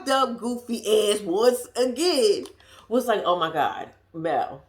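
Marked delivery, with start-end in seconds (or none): 3.2-4.6 scolding herself. Retold or imitated. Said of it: "this is to myself".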